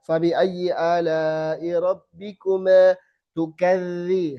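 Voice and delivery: slow, zal in tukadzi flowing; slow recitation. Shown as a demonstration. Teacher reciting an example, slowly. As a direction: recite letting dz stream. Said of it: "Harusnya ngalir gitu".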